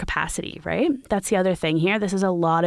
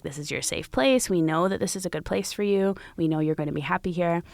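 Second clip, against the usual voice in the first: calm and confident. Retold or imitated. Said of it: "very calmly and confidently said".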